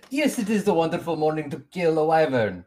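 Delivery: cheery NPC in a put-on accent. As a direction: greet the party in the character's accent. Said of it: "just keep talking in this accent".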